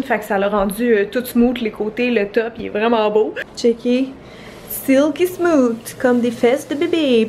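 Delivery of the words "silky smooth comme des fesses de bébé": voix de pub veloutée. Pretend. Vante le bois bien poncé.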